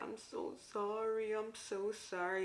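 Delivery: a put-on sorry-sorry voice; mock apology. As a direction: play the meek apologizing client. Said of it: "the client's like".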